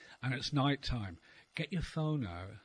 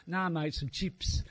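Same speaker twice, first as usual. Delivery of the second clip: slow, stubborn fake Australian; drawn-out faked Australian insistence; mock Australian accent; slower than usual. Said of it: "pretend you're Australian for the day".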